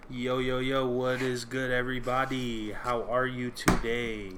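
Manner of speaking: slow, drawn-out hype man greeting. Pretend. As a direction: pump up the crowd, slowly. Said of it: "Why am I speaking like this?".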